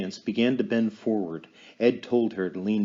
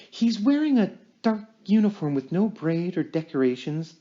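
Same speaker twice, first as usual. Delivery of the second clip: raised, intent medium in a trance; 5 semitones higher than usual. Acted. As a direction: speak as if channeling a spirit. Lorraine in trance voicing spirit.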